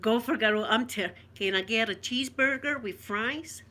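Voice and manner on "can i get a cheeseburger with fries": attempted American accent. Shown as a demonstration. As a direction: put on an amateur American accent. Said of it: "that's the best American accent".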